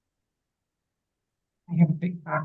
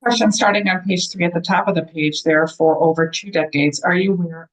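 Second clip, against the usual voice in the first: audio cutting in and out; words dropping out on a bad line; choppy cut off endings. Real, not acted. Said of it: "you're cutting in and out".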